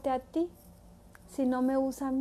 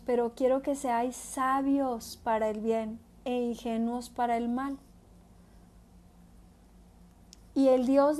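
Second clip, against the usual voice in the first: measured, declaiming Bible reading; scripture reading. Acted. Preacher reading Romans aloud to the congregation, solemn and measured. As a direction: read the verses out with weight.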